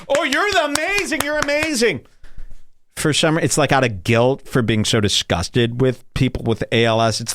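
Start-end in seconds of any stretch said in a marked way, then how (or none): 0.1-2.0 high, gushing mock praise; much higher, syrupy mock adoration; fake gushing praise. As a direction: coo it like patronizing fake admiration. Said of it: "But everyone would".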